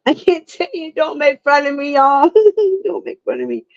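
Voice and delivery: high-pitched words through laughter; giggly, squeaky self-mockery; embarrassed giggling. Real, not acted. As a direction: plead playfully while cracking up. Embarrassed giggling over mispronounced word.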